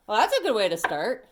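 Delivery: breathless after talking fast; short of breath, puffing. Real, not acted. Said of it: "I'm already out of breath".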